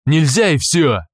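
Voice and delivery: loud, final no; curt refusal. Acted. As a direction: slam the door on the question. Guard refusing flatly.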